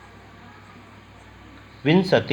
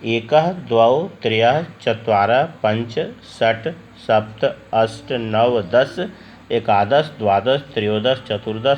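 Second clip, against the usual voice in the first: slow recitation. Shown as a demonstration. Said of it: "अगर याद कर लेंगे, ध्यान देंगे".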